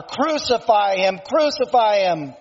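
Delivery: restrained mock roar of a mob; emphatic, lightly acted crowd cry; mob's roar. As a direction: voice an angry mob without a full shout. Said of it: "the mob roared louder".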